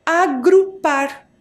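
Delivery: "Agrupar" slowly, divided as A-gru-par; syllable by syllable. Shown as a demonstration. Teacher shows the word derived from grupo, slow and syllable by syllable. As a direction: spell out "Agrupar" by its syllables, each one drawn out. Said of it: "manteve a escrita desta sílaba".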